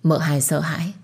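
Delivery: usual speaking voice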